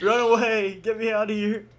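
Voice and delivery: high, loud playful escape cry; mock panic. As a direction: shout it like a comic getaway. Pretends to flee the friend.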